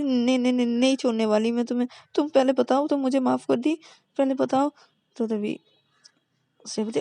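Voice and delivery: high, eager refusal; insistent pleading. Acted. Partner refusing to let go of her girlfriend. Shruti insists holding hand.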